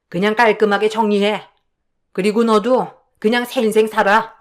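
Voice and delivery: mother-in-law, firm and commanding; a hint of a hard older woman laying down terms; cold mother-in-law. Mother-in-law ordering her daughter-in-law to divorce, coldly.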